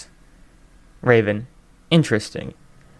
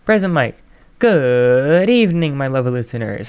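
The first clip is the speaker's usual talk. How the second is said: hype radio host; 3 dB louder than usual. Acted. Radio host opening the show.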